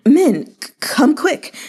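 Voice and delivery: loud, stammering cry for help; panicked shout. A narrator's reading. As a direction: yell for the guards, tripping over the words. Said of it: "He shouted himself hoarse".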